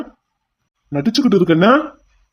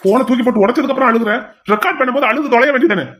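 raised, higher jeering rant; mock her tears, rising in anger; angry taunting; 4 semitones higher than usual. Villain taunts crying captive. (அழுகையைக் கிண்டல் செய்யும் கோபக் குரல்)

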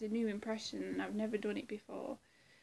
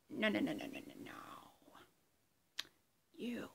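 Joker. Acted. Performer doing a Joker monologue, whispery menace. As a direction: menace in a breathy stage whisper, swelling and dropping away. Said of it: "that was my impression of Joker".

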